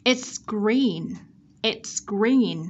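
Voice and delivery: "It's green" with clear ts before g; don't drop the s in "It's green"; careful repeated model of "It's green"; ending sound kept. Shown as a demonstration. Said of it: "đừng bỏ qua cái ending sound này".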